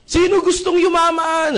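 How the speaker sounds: slow, high, loud rally call; hype question. Retold or imitated. Seminar speaker asking crowd who wants riches, slow loud call. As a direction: work the crowd up. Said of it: "Nagsisigawan yung mga tao".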